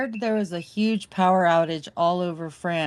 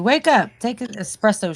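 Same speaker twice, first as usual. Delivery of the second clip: teasing call; 3 semitones higher, 4 dB louder than usual. Pretend. Host teasing a groggy-sounding guest, playful call. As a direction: poke him awake with a grin.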